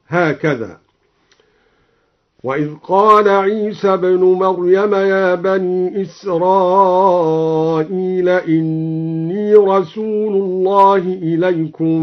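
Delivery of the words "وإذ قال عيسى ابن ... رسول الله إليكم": "بعدي" with open ya, slow chant; Quranic recitation. Shown as a demonstration. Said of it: "وفتح الياء من قوله تعالى". (ترتيل بفتح ياء "بعدي")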